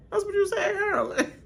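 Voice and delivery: repeated through laughter, high; laughing. Retold or imitated. Host repeating the tease to Carolyn, laughing. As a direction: say it while cracking up. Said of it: "See, I was like".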